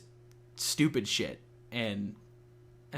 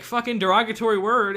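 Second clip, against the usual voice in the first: loud, high imitation of an edgy troll; mock-brash outburst, pitched up; mock provocateur; 9 semitones higher, 9 dB louder than usual. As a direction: blurt it out like someone mocking offence. Voices people using slurs provocatively.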